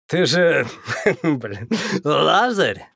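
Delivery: slow, laughing through the question. Acted. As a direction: still laughing as you ask. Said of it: "отсмеявшись".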